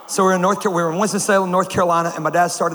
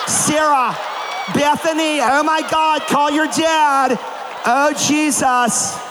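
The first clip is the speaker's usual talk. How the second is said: mock panicked girls; 8 semitones higher, slower than usual. Scared girls at a sleepover crying out, mock panic. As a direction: shriek it like frightened girls calling for help. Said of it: "When white girls are scared".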